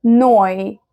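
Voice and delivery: نوي, the eu sounded as "oy". Shown as a demonstration. Teacher modelling German eu for learners, clear "oy" in نوي. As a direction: say نوي with an "oy" glide. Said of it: "ال اي او بتتنطق اوي".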